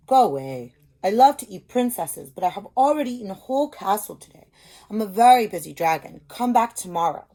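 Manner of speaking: an irritated dragon shooing her away from his door; loud dragon. Acted. Dragon's lines in the story.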